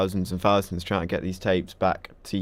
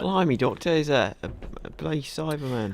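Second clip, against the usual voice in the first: put-on Cockney accent, higher pitched; 6 semitones higher than usual. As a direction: mimic the Cockney Ben. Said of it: "That's an Australian accent".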